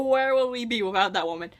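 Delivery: a breathy whisper; hushed, fangirling whisper; whispered aside. Real, not acted. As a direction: confide it like a secret. Gushing aside about favorite character.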